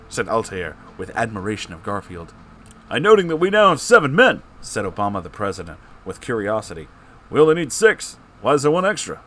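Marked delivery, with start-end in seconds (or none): 2.9-9.2 Obama voice. Acted. Voicing Obama in story.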